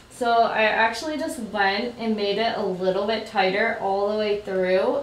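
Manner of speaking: talking with a pin in mouth. Real, not acted. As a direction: speak around pins held in lips. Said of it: "Sorry, I'm talking with a pin in my mouth".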